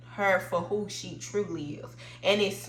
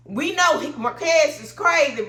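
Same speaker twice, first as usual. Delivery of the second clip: higher and louder, laughing through it; 6 semitones higher, 6 dB louder than usual. Real, not acted. Vlogger laughing at Marquez while judging the couple. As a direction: laugh as you call him out.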